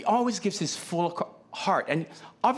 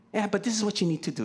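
fast, dismissive brush-off; mock insistent fixer; 3 semitones higher, much faster than usual. Fixer brushing off a hurting friend in a fast dismissive voice. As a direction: brush the feelings aside and push the fix. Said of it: "fixer insists again".

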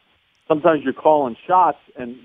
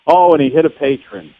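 golf announcer reacting with a louder gasp; golf commentator; 3 semitones higher, 5 dB louder than usual. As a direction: break the golf hush with a dismayed call. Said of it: "do me in the golf voice".

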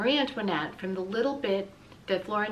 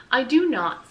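loud, high, offended denial; acted indignation, raised voice; indignant denial; 5 semitones higher, 8 dB louder than usual. A narrator's reading. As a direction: push back hard as an outraged girl. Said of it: "She felt a flush of outrage".

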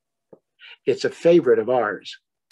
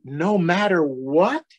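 smiling question; 4 semitones higher, slower than usual. Acted. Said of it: "said Small with a smile".

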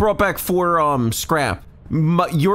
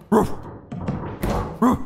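barking imitation; 4 dB quieter than usual. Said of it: "it sounds like a bark".

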